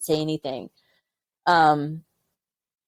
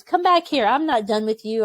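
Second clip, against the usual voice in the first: barked order; 3 semitones higher than usual. Retold or imitated. Surgeon ordering the medic to come back, raised and sharp. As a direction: call her back like an angry officer.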